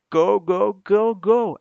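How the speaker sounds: high, loud rapid-fire urging; excited high-pitched shout; urgent cheering. Real, not acted. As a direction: shout it to spur the move on. Urging play on, low on time.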